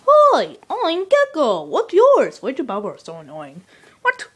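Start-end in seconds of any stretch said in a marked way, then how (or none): 0.1-2.4 much higher little critter; squeaky gecko voice. Acted. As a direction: pipe it up like a tiny gecko. New tiny character greeting.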